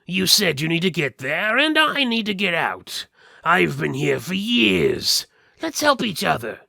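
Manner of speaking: high, loud put-on skeleton voice; a caged skeleton talking big to strangers. Caged skeleton pleads with the party, high and loud.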